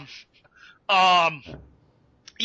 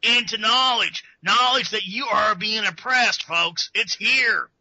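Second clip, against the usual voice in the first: Alex Jones impression; slower than usual. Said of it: "the Alex Jones marketing voice".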